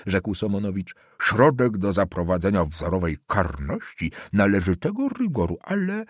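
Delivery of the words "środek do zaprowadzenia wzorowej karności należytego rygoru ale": put-on sly old councillor. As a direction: savour each word like a smug old official.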